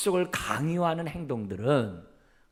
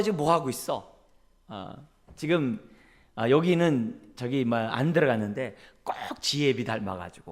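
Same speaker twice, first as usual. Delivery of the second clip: sarcastic nagging. Retold or imitated. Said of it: "부모가 이렇게 막 이렇게 빈정거리는".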